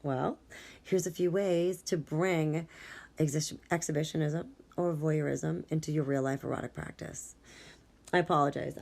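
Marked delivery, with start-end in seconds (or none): 0.8-7.4 dry-mouthed, tongue sticking. Real, not acted. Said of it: "I am so dry-mouthed right now".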